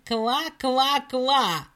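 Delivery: laughing frog croaks. Acted. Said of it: "засмеялась лягушка".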